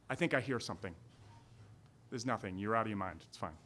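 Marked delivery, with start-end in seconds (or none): 2.1-3.6 much softer, lower, half asleep; sleepy mumble. Retold or imitated. Dismissing Murphy's worry in the tent, sleepy mumble. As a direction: drift off while brushing him off.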